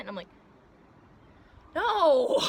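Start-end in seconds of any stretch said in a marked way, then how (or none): 1.7-2.4 high loud indignant shout. Retold or imitated. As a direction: shout it, horrified. Denying pregnancy to mom.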